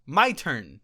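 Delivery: lightly hammed-up kid at the mic; a hint of a grand announcement; imitating the kid. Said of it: "He said".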